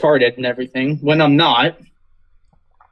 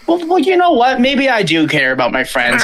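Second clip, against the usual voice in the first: sudden high-pitched angry burst; angry outburst; 6 semitones higher than usual. Real, not acted. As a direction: let the anger spill out. Venting about hated teacher.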